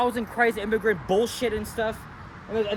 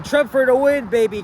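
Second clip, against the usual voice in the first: imitated yell; 3 semitones higher, 5 dB louder than usual. Man yelling on the subway, imitated yelling. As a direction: call it out like a loud heckler. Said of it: "he was, like, yelling".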